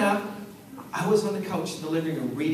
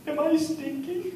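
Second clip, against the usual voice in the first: put-on high, slow, small child's question; little girl voice; 8 semitones higher than usual. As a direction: ask it like an anxious three-year-old, high and slow. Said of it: "and she went".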